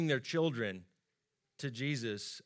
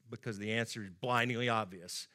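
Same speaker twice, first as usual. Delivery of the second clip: ordinary delivery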